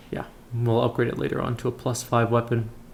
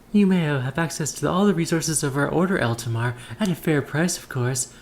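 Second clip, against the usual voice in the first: lightly put-on southern accent, lilting up on key phrases; mild southern accent, courteous merchant; 4 semitones higher than usual. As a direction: play the sister with a hint of southern accent. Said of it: "she has a southern accent".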